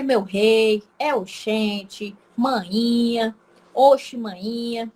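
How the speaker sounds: drawn-out Bahian expressions, slow; slow, lilting Bahian slang, lightly done; imitating Bahian accent. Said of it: "a forma que eles falam também é um africano". (sotaque baiano imitado, arrastado)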